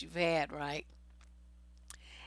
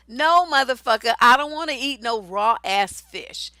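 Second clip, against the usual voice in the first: indignant retort; 2 semitones higher, 6 dB louder than usual. Acted. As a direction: cut the mansplainer off indignantly. Acted retort to the mansplainer.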